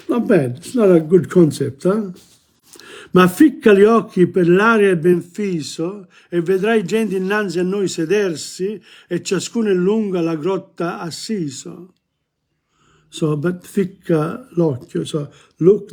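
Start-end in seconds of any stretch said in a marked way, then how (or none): 3.1-11.9 poetry recitation. Acted. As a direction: recite the verse line by line. Recites Dante's verse.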